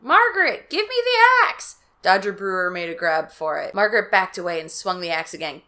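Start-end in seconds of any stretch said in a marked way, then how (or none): 0.0-1.8 high, loud commanding father; demanding. Acted. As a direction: demand the axe.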